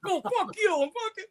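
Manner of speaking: mock Jersey-style brawler bragging; tough guy impression. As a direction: ham up a hothead Italian threatening a fight. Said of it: "Italians don't talk like that".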